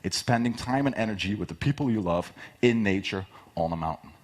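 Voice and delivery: animated, passionate pitch; excited pitch demo. Shown as a demonstration. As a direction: sell it with real passion. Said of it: "But I exaggerated for, for the talk".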